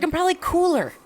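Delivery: a pleased pup, pitched well up; smug little dog talking; high dog voice. Pretend. Voicing the dog.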